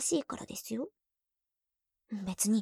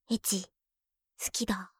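lightly voiced boyfriend impression; a hint of a gruff confession; mock senpai saying he loves her; imitating senpai; 2 semitones lower than usual. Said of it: "先輩のモノマネ".

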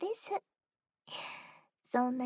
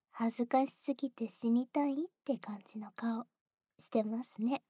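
whispered close-up tease; teasing whisper. Acted. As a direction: whisper the tease into his ear.

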